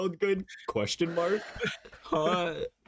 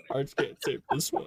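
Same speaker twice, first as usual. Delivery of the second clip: whispered repeat; 3 semitones lower than usual. Shown as a demonstration.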